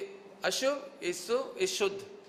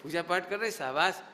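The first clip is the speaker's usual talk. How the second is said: low-pitched, approving pat on the back; encouraging praise; 6 semitones lower than usual. Acted. Teacher praising children for coming to the temple, low encouraging tone. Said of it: "ये कथनचित उपाधि की tone".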